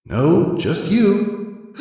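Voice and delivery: high, cheeky put-down; high snarky filly; sassy retort. Acted. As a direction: talk back to the teacher. Scootaloo sasses the teacher.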